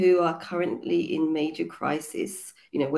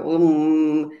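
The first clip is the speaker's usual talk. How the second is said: long, resonant "mmm" chant; imitated meditation hum; 6 dB louder than usual. Yoga teacher imitates students starting meditation, drawn-out hum. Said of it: "sit there and go".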